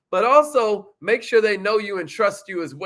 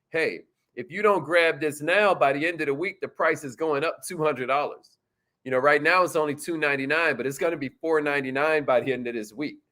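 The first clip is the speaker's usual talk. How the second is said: urgency pitch; 5 semitones lower than usual. Shown as a demonstration. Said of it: "but here's urgency".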